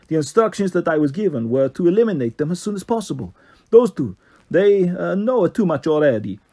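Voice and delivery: lightly voiced posh Italian lilt; a hint of a posh Italian boss giving orders; mild Italian-accented posh voice. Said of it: "It had the rhythm of an Italian accent".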